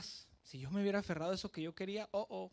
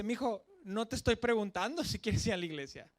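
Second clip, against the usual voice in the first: louder, firm voice of the father; stern father; 4 semitones higher, 6 dB louder than usual. Retold or imitated. Father telling his son, louder and stern. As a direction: lay down the law like a strict dad.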